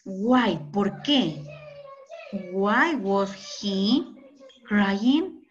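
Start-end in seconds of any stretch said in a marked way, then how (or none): 2.5-5.5 very slow, carefully spaced English question; slow classroom English demo; slow model sentence. Shown as a demonstration. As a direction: lay out each word for the class. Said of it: "Qué más podríamos decir".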